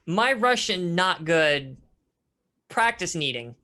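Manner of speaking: put-on slow, halting, lightly Russian-accented English; a hint of a Russian speaker struggling for words, slowly; apologetic man, in slow, stilted Russian-accented English. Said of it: "in a very stilted Russian accent".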